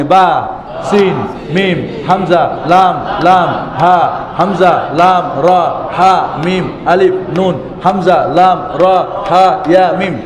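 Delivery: letter names called out one by one, each punched; drill recitation. Shown as a demonstration. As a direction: chant the letters for the class to repeat. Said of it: "দ্রুত বলেন আমার সঙ্গে".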